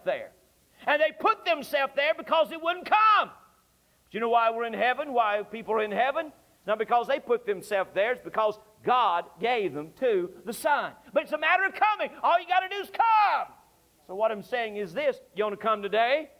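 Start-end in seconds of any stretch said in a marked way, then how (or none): 0.9-3.3 loud, higher shouted declaration; preacher's shout. Acted. Preacher shouting at the congregation about hell. 11.1-13.5 high, urgent appeal; fervent preaching. Acted. Preacher urging listeners to come, rising fervor.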